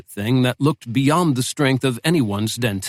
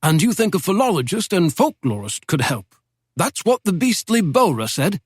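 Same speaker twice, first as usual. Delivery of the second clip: put-on a lightly raised, genteel old don's voice; old British professor; 6 semitones higher than usual. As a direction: speak as a wry Oxford professor reminiscing. Professor speaking.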